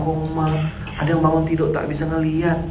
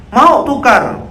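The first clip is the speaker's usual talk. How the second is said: much higher, louder challenge; imitated preacher's biting comeback; mock sharp retort; 12 semitones higher, 8 dB louder, much slower than usual. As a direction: throw it back at him. Ustadz retort to patient.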